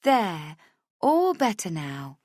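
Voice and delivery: slow, lilting sing-song. Acted. Viv finishing Rach's makeup, lilting sing-song. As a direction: comfort her like a child. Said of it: "she says in a sing-song voice".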